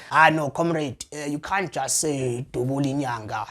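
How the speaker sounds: low-key, hesitant advising voice; lightly voiced comrade. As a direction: gently talk a comrade out of it. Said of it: "talks like me to say".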